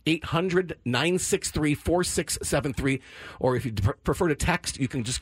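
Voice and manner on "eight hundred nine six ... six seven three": slow, deliberate number dictation; slow and clear. Shown as a demonstration. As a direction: spell out each digit slowly. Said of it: "Can I get the number one more time".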